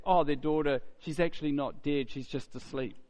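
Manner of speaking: a touch of scornful disbelief, trailing down; lightly mock the claim as the crowd would; mild mocking retelling. Voicing the scoffing crowd.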